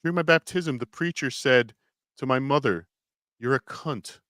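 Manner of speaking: a faded put-on British accent; fading accent. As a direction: let the fake accent drift toward Irish. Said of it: "starting to sound like a potato".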